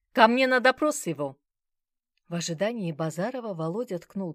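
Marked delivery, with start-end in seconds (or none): 0.1-1.4 loud curt order down the phone; commanding order. A narrator's reading. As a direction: bark the order. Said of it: "А потом распорядился". (громкий приказ в трубку)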